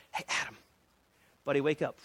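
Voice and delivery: soft, low voice to a sleeper; gentle waking. Acted. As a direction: wake him quietly and gently. God gently wakes sleeping Adam.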